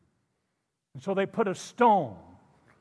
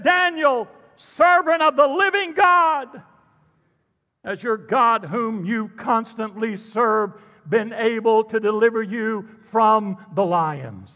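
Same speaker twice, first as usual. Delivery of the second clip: Mickey Mouse voice; 4 dB louder than usual. Retold or imitated. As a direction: pitch it up like a cartoon mouse. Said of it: "He sounds like Mickey Mouse".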